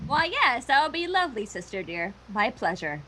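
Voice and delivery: caustic concession. Acted. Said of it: "in tones of great and caustic concession".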